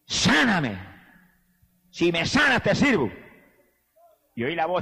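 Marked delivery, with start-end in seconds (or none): 0.1-3.1 pleading cry. Retold or imitated. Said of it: "y dije".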